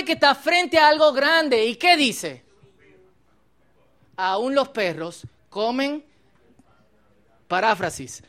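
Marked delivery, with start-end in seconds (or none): 4.2-6.0 quiet plea. Acted.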